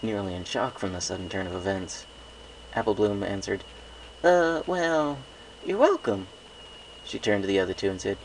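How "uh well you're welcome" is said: high little-sister voice, coaxing; a small filly asking big sis a favour; young filly. A narrator's reading. Apple Bloom filly voice.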